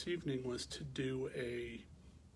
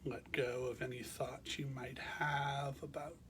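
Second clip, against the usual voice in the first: calm, measured meditation guidance with long pauses; guided meditation; 3 dB quieter than usual. Real, not acted. Teacher guiding listeners to bring awareness to the breath, calm meditation voice. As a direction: guide them gently into rest, leaving space between phrases.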